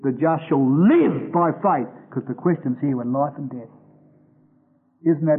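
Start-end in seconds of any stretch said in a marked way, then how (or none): 0.0-1.9 slow with the weight on "live"; slowly, "live" leaned on and falling; stress on live. Shown as a demonstration. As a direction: lean into "live" as the key word. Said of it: "When we read it in Hebrews ten".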